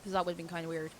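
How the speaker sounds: talking around an ice cube; ice in mouth. Real, not acted. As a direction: speak with ice in your mouth. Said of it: "I have an ice cube in my mouth".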